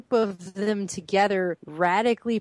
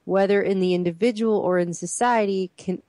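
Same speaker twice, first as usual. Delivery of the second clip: measured, deliberate read-aloud; slow reading. Real, not acted. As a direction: read it out slowly for close attention. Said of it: "let's read that again slowly".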